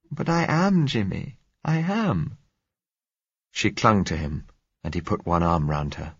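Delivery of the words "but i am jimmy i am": put-on high, anxious young woman; frightened girl voice. A narrator's reading. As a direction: voice a scared girl pleading.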